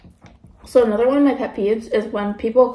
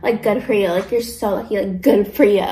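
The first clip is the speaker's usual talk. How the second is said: snide; 3 semitones lower than usual. Retold or imitated. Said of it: "it was, like, so mean".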